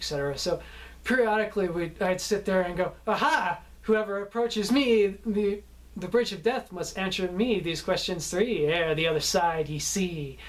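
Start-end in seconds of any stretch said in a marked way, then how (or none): 3.1-10.4 lightly hammed-up challenge; a hint of a dramatic gatekeeper, posing a riddle; bridge keeper. Playing Monty Python bridge keeper on set.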